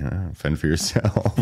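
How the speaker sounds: slow, gloating and pleased; smug and smiling. Retold or imitated. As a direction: savor it like a treat. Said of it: "smile all the way to the frying pan and say".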